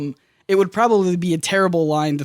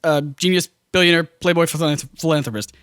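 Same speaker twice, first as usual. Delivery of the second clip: listing each title. Retold or imitated. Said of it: "they have Robert Downey Junior say the line like".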